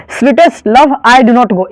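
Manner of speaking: Sweetest Love I Do Not Go said very slowly, word by word; slow title reading. Shown as a demonstration. Teacher slowly reading the poem title to students. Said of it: "है ना".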